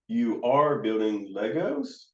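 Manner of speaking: slow, with "Legos" rising into a question; questioning tune. Shown as a demonstration. Counselor accidentally questioning a child, rising on "Legos". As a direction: lift the end of "Legos" as if asking. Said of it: "it comes across as a question".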